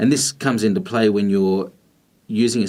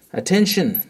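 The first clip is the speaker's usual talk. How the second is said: urgent command; 9 semitones higher than usual. Shown as a demonstration. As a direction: snap everyone to attention. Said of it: "warn someone with urgency".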